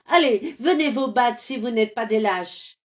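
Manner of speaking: loud taunting challenge; challenging. Acted. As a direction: dare them to fight. Défi aux voleurs. (Carmelito défie les voleurs d'enfants, fort)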